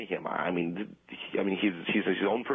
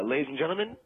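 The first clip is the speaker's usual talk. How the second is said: stage announcer; 2 semitones higher than usual. Acted. Ventriloquist introducing his water-drinking bit to the audience, showman-like.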